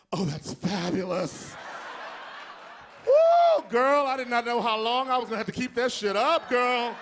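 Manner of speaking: high, loud, sassy and flamboyant; over-the-top diva squeal of relief; flamboyant gay voice. Retold or imitated. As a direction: camp it up big for the boss. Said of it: "and I went".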